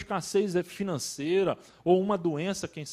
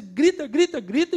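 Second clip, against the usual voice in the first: louder, higher repeated word; mock crying out; 4 semitones higher, 6 dB louder than usual. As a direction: raise voice and pitch on each repeat. Illustrates crying out to God.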